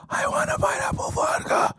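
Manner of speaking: high yelled drink order; shout. Retold or imitated. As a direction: shout over the music. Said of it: "shouting order over club noise".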